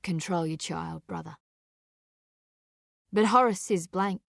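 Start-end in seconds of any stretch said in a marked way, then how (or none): 0.0-1.4 softer cold calm command. Acted. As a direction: say it quietly, icy and controlled. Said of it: "talks to his brother calmly".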